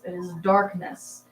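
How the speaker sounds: slow ominous dramatic repeat; mock dramatic. Shown as a demonstration. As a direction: intone it like doom.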